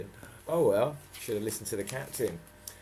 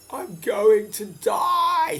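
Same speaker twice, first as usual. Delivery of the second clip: panic; 13 semitones higher, 13 dB louder, much slower than usual. Acted. Jess's terrified thought.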